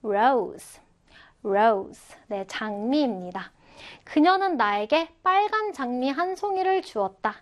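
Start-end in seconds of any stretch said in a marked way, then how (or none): 0.0-2.2 careful model reading of "rose"; model pronunciation. Shown as a demonstration. Teacher modelling "rose" for learners, careful pronunciation. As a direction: say "rose" as a clear, separate word to copy. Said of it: "자, 발음해볼까요?".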